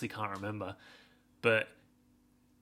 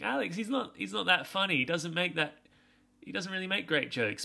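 much higher, squeaky mock-sceptical voice; mock listener voice; 8 semitones higher than usual. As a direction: put on a high, silly doubting listener. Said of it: "You think".

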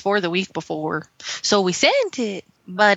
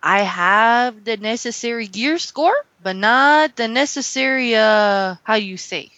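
mock Mexican accent.

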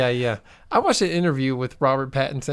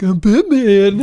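Bale Batman voice; 7 semitones higher, 8 dB louder, slower than usual. Retold or imitated. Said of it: "And he's like".

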